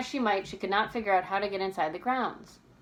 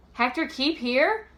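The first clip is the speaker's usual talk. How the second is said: alarmed; 5 semitones higher, 5 dB louder than usual. A narrator's reading. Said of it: "George echoed in alarm".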